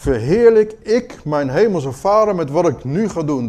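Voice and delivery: probing, earnest self-examination; pointed question to the mirror; searching self-question. Shown as a demonstration. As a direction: ask it to yourself in the mirror. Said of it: "ga je voor de spiegel staan".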